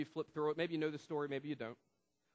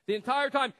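booming; 9 semitones higher, 11 dB louder than usual. Acted. Loud repeat after hush.

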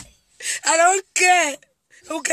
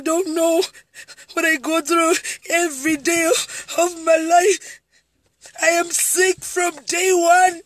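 crying out. Real, not acted. Telling viewers what she goes through, crying out. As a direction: let it burst out through tears. Tells viewers her suffering.

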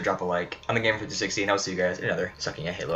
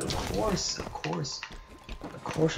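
of course pitched way up, jokey; sing-song mock insistence; high-pitched of course; 9 semitones higher, much slower than usual.

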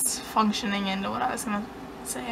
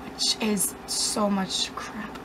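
mumbled aside; 3 semitones lower, 7 dB quieter, much slower than usual. Acted. Self-deprecating mumble.

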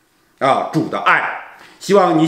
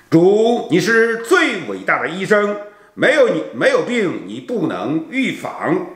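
earnest, devotional prayer-poem recital; 4 semitones higher than usual. Acted. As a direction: read it like a heartfelt hymn to God. Reads prayer poem part seven.

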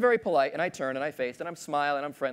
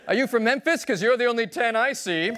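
cheesy pickup line; 7 semitones higher than usual. Acted. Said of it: "uses one of those cheesy pickup lines".

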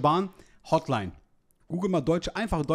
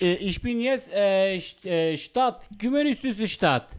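put-on Vietnamese accent in German; slower than usual. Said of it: "Hotel muss man als Vietnamese anrufen".

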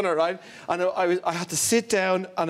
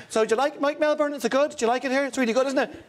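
chatty runner; 3 semitones higher, faster than usual. Retold or imitated. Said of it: "she's going like this".

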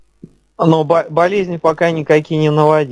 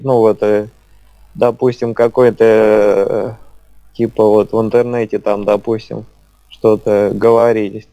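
slowed speech. Real, not acted. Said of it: "у вас просто немножко замедленная речь".

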